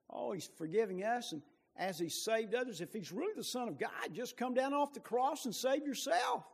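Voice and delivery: a hint of a jeering ruler, rising to a taunt; understated mock of the scoffing crowd; mild mocking. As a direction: lightly sneer the dare. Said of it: "They're mocking".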